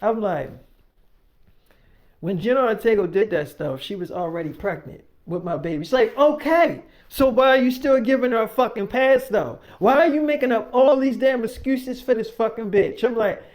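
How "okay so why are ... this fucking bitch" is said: put-on accusing girlfriend. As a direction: fire the questions at him, pitch up. Millie voiced, accusing.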